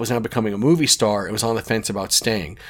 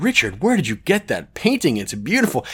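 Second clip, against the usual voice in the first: higher-pitched, gushing admiration; mock raving; 4 semitones higher than usual. Visitors pranking Richard about his painting, mock raving. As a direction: rave over it with exaggerated wonder. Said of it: "rave about it".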